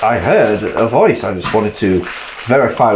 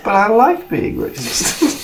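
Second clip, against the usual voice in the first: mock whine; 12 semitones higher than usual.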